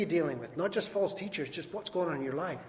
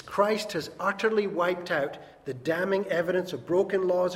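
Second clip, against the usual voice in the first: declamatory reading, hitting the key words; emphatic scripture reading; 4 dB louder than usual. Acted. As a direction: proclaim the verse triumphantly, slowing on the final words. Reads a translation with preaching force.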